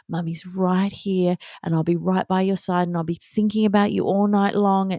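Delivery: lightly acted bedtime reassurance; reassuring mother. Friend advising what to tell a child at bedtime, reassuring.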